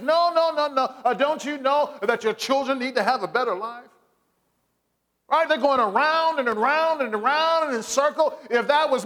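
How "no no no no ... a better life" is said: dodging visitor. Retold or imitated.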